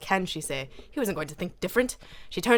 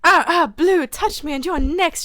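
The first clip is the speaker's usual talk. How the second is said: high, much louder breathless threat; panting; 10 semitones higher, 8 dB louder than usual. A narrator's reading. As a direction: gasp out the warning. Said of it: "she panted".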